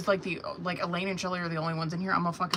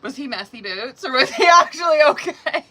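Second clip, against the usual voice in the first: excited tease; 7 semitones higher, 9 dB louder than usual. Real, not acted. Teasing viewer about date.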